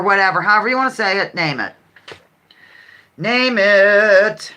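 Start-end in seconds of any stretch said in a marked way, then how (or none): 3.2-4.5 louder, game-show host call; punchy call. Shown as a demonstration. Host challenging the chat to answer, with a louder call. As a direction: throw it out to the players like a challenge.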